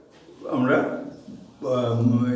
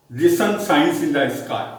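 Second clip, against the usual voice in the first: slow read-aloud; much slower than usual. Shown as a demonstration. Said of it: "sun and the moon এর poem পড়েছো".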